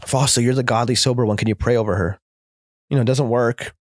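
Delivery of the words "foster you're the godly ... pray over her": family pleading. Retold or imitated. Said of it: "So I go to the hospital".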